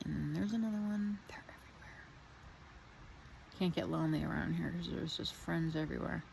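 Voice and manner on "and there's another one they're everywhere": trailing down into a whisper; hushed aside. Real, not acted. Speaker noting flies all around, hushed aside fading to whisper. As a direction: let the words fade almost to nothing.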